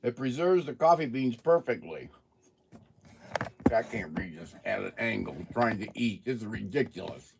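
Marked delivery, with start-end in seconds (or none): 5.4-6.2 talking while chewing; words round a mouthful of food; mouth full. Real, not acted. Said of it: "I can't talk and eat with my mouth full".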